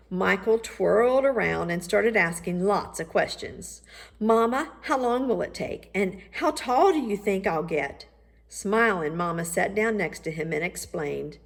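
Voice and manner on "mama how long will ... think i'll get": growing excited. Acted. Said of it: "Growing more excited".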